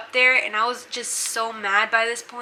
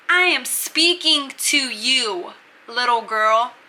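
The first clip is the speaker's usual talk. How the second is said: slow, deliberate mock confrontation; slightly raised, drawn-out challenge; mock menacing; 3 dB louder, slower than usual. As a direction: imitate a bully spacing out each word. Bunkie confronting her in retold quarrel.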